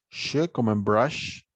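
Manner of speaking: "Sh" said slowly, as in "brush"; teacher modelling "Sh" at a slow pace; consonant demo. Shown as a demonstration. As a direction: slowly demonstrate the sh sound of "brush". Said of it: "vamos a tener sonidos de consonantes".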